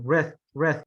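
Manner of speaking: "rith" isolated, ending on a sounded TH; clear TH syllable. Shown as a demonstration. Teacher corrects student, isolating "rith" with a clear TH. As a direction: stress "rith" as its own syllable. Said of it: "remember the rith".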